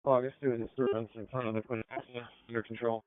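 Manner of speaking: radio cutting out. Real, not acted. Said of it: "Your radio cut out there".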